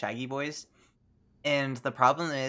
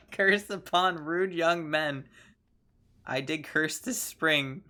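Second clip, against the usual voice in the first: a lightly voiced old witch intoning; 2 semitones higher, slower than usual. Witch character speaking again.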